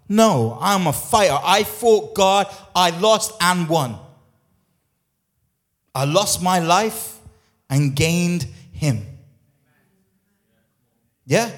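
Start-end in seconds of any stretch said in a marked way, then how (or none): 0.1-9.1 loud, slow declaration of faith; bold proclamation. Shown as a demonstration. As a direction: proclaim it slowly and loudly like a battle cry. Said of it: "Start proclaiming it over your life".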